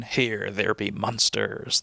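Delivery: slow movie pirate impression; pirate captain voice, slow; Barbossa. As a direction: draw it out like a film pirate. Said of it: "Barbossa in, uh, Pirates of the Caribbean".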